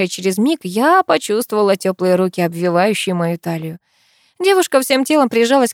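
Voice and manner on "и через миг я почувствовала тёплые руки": usual speaking voice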